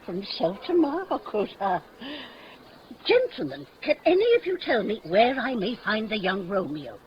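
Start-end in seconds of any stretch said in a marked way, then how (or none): 3.1-5.6 calling out. Acted. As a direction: call out to get their attention. Nurse hailing the young men.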